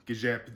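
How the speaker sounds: GIJEP ending in a P sound; final B of Gijep said as P; B softened to P. Shown as a demonstration. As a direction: close Gijep on P, though written with B. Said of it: "usually a B at the end".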